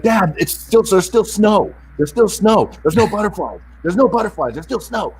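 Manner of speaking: put-on high-pitched whining teen protest; whiny daughter. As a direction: whine it like a fed-up fourteen-year-old. Daughter protesting over the phone.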